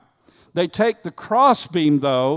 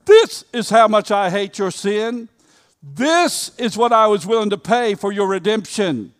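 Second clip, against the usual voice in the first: voice of God; 3 semitones higher, 4 dB louder than usual. Acted.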